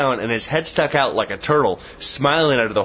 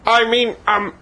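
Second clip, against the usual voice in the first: a much higher, laughing parody of Bush bragging; mock Bush; 4 dB louder than usual. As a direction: send up Bush, squeaky and giggling. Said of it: "he's gonna bust out and say".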